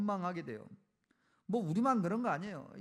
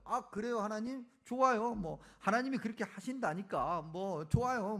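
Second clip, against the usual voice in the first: raised, grudging mock agreement; sarcastic acceptance; 2 semitones higher than usual. Prophet answering God's plan, sarcastically going along. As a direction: give in to God with a touch of sarcasm. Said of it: "빈정되는 거예요".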